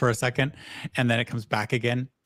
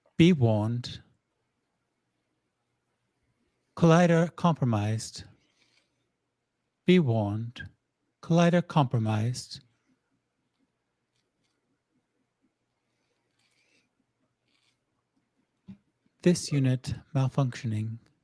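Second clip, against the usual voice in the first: stilted, machine-like robotic assistant voice. Voicing a malfunctioning unit speaking Sylvan: awkward mechanical Siri-like voice. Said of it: "awkwardly and mechanically, and with a s-, accent not unlike Siri's".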